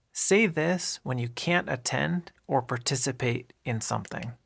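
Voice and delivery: normal talking voice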